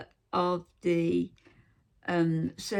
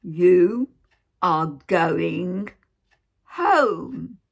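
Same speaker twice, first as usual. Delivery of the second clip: drawn-out shout; 9 dB louder, much slower than usual. Retold or imitated. Nurse repeating to the patient, loud spaced-out shout. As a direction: spell it out word by word in a loud voice. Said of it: "She didn't say it like that".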